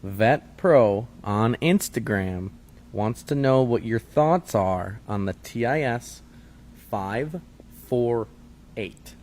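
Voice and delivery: slow, deliberate repeat with gaps between phrases; really slow. Shown as a demonstration. Co-host repeats a question so it can be Googled, really slow. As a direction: spell it out slowly, pausing between each number. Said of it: "I'll talk really slow".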